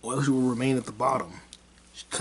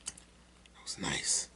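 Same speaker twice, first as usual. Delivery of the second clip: slow, soft, contented whisper; satisfied whisper; 7 semitones lower, 11 dB quieter, much slower than usual. Real, not acted. Vlogger after a drink of water, slow soft whisper. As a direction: breathe it out slowly, satisfied.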